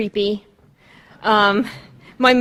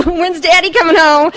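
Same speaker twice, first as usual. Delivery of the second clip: put-on a small child's hopeful question, pitched up; child asking; 7 semitones higher, 9 dB louder than usual. Grown daughter imitating her child self asking when Daddy comes home. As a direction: ask it like a little girl waiting for dad.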